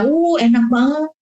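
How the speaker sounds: showing it's tasty. Shown as a demonstration. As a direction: sell the food with your face and voice. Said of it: "mimik muka kita".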